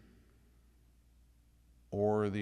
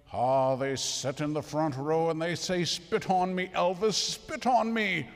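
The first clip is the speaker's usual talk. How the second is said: high, loud Irish brogue, mimicking fans begging; an Irish professor imitating screaming fans of a singer; 5 semitones higher, 7 dB louder than usual. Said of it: "in his Irish brogue".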